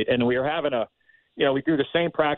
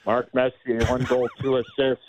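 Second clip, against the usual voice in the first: a light imitation of a CNN highlights read; half-joking headline sports read; mock sportscast. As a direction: rattle off the scores like a sports anchor, sign-off pitched up. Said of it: "give us a little C N N".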